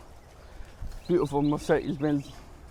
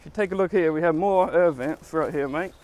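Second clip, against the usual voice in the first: fake British accent. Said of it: "your best British accent".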